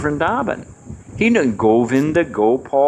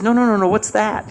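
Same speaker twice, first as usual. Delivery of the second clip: put-on high, insistent child's voice; a kid pushing for an answer; insistent little boy; 6 semitones higher than usual. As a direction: grandson won't be brushed off. Son insists.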